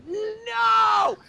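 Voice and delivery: high, loud desperate no; panicked shout. Retold or imitated. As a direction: yell to stop it in its tracks. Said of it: "And I'm like".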